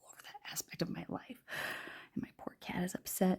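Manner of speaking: real hushed whisper; whisper read. Real, not acted. Reader with an upset cat having to whisper read. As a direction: drop your voice right down to whispering. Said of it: "like, whisper read".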